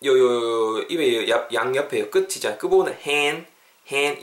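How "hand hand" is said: "hand" as "haen", lips pulled sideways, no d; spread-lipped vowel. Shown as a demonstration. Teacher explains mouth shape, "hand" with a wide vowel and silent d. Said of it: "이렇게 옆으로 좀 째면서".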